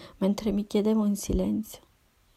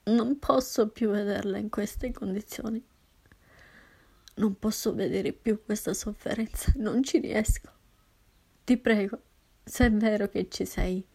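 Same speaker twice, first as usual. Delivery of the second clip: pleading. Acted. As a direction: beg God through grief. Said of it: "iniziai a supplicarlo". (supplica disperata, voce rotta)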